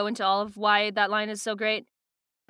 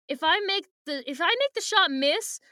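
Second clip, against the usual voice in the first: acted alarm; 7 semitones higher than usual. Acted objection in retold argument.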